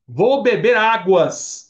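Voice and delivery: loud, slow "águas"; mock-formal stress on "águas"; unnatural plural. Shown as a demonstration. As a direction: stretch "águas" to its final s, high and loud. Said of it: "Você não fala assim".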